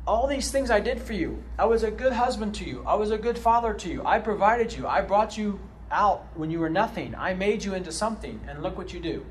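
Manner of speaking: mildly voiced God listing his gifts; hurt God recounting. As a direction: plead it as a hurt, betrayed provider. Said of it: "He, he, he says".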